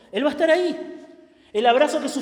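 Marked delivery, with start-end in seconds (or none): 0.1-0.9 emphatic preaching peak. Acted. Preacher climaxes on the promise.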